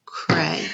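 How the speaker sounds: "cray" said alone with a lift; first syllable. Shown as a demonstration. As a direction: pull out "cray" as its own part. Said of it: "work with the first part".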